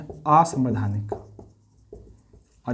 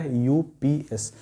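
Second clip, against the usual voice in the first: slow dictation; much slower than usual. Shown as a demonstration. Teacher spelling an acronym for students, slowly. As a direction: draw out each letter. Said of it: "इसको क्या बोलते हैं?".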